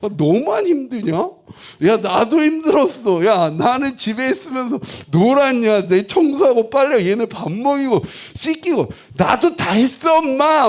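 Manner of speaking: loud, high-pitched venting outburst; angry retort. Retold or imitated. Husband wanting to tell his tired wife he worked too, angry outburst. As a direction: re-enact an indignant rant at full volume. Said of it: "그 얘기가 또 그렇게 듣기 싫은 거예요".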